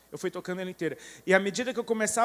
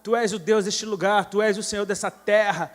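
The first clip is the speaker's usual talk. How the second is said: preacher recounting his declaration over the island, fervently proclaimed; 5 dB louder than usual. Retold or imitated. Preacher retelling his worship in Hawaii, declaring fervently. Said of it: "eu comecei a declarar".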